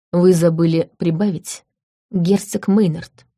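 slow, icy and measured; lightly voiced cold reproach; cold fury. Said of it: "Ледяным тоном произносит канцлер".

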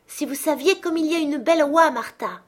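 put-on high, loud child's hurrah; children cheering. A narrator's reading. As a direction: shout for joy like a little kid. Children cheering about the goose. (cri de joie d'enfant, aigu et fort)

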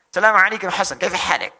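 put-on loud Arabic-accented greeting. Indonesian greeting Hasan like an Arab, loud Arabic accent. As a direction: imitate a native Arab speaker, loudly. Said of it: "Kayak orang Arab".

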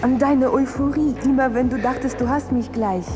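coaxing, intimate pleading; seductive, reproachful coaxing; seductive lover voice. Acted. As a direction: win him back like a jilted lover. The internet seducing Frank.

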